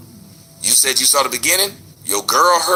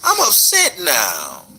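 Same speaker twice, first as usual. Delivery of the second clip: mocking whiny complaint; 3 semitones higher than usual. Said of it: "tell my girl".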